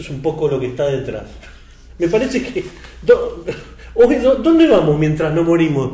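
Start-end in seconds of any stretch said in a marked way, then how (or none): 2.0-5.9 laughing through the words; real laughter bubbling into the question; amused laughing. Real, not acted. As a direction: say it while breaking into a chuckle. Amused at own title, laughing.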